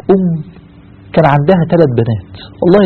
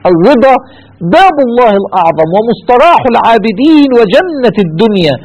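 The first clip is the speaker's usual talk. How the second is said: raised, fervent second reading; higher, fervent repeat; 5 semitones higher than usual. Shown as a demonstration. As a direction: lift the phrase up with passion. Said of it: "اكتبوها". (ترديد حماسي بصوت أعلى)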